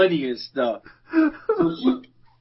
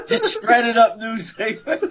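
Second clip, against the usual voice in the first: laughing; 4 semitones higher than usual. Real, not acted. Teller cracking up at punchline.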